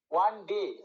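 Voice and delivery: quick ওয়ান, then rest on ডে; pause on ডে. Shown as a demonstration. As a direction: move through ওয়ান and settle on ডে. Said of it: "ডে তাতে এসে একটা pause হচ্ছে".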